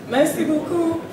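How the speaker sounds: English speaker saying merci beaucoup; American accent on merci beaucoup; foreign accent in French. Real, not acted. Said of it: "mon français n'est pas bon".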